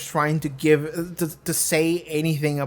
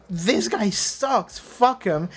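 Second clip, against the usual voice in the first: higher, drawn-out disgust at THIS GUY SUCKS; scornful dismissal; 4 semitones higher, much slower than usual. Shown as a demonstration. Viewer who hates the character reacting to the scene, scornful dismissal. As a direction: write him off with emphatic contempt. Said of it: "there's two ways you can take that scene".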